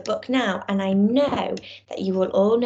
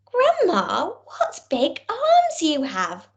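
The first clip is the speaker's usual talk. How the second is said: higher, slow and whispered wonder; amazed little girl; 6 semitones higher, slower than usual. Acted. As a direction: gasp it out like a wide-eyed child. Girl marvels at grandma.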